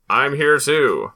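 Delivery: a wind-up doll repeating its phrase; pull string toy. Retold or imitated. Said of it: "doll where you pull the string".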